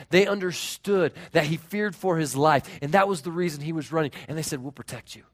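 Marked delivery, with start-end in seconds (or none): 4.6-5.2 low-key, softer promise; soft reassurance. Acted. God and angel reassuring fearful Elijah, softly. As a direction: reassure gently, dropping the volume.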